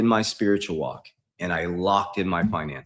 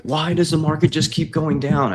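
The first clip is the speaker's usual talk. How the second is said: higher, louder mock question; imitated commenter; 6 semitones higher, 5 dB louder than usual. Quoting a commenter's question about the falling market, imitated complaint. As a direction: mimic a follower's complaint, pitched up and loud. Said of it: "Somebody's like".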